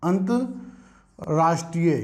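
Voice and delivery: अंतर्राष्ट्रीय said slowly, each syllable drawn out; slow spelled-out demo. Shown as a demonstration. Teacher slowly sounds out अंतर्राष्ट्रीय for students. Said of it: "क्या लिखते हैं".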